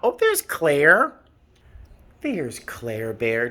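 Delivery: slow sing-song pet talk; slow cooing. Real, not acted. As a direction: coo the name slowly. Cooing at cat.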